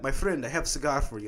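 lightly put-on foreign street-seller accent; a hint of a hawker's foreign accent; imitated cigar seller's accent. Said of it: "Where's this accent coming from".

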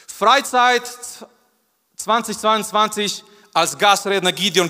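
mock announcer.

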